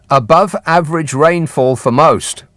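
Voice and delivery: slow, weighty announcer read; doom-laden forecast. Shown as a demonstration. Host reading the summer forecast, slow and ominous. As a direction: reveal the bad news slowly to listeners. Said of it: "Summer. Good luck, everybody".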